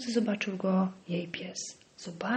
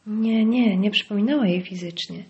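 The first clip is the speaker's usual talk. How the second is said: louder, irritated correction; 6 dB louder than usual. Acted. Henry correcting the doctor, irritated. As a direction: snap the correction, annoyed. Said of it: "Dodał, poirytowany".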